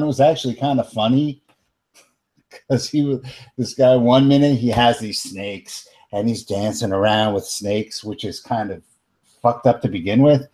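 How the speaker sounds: put-on light Bronx teen New York accent; casual New York accent, Bronx kid. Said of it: "your super sweet New York accent".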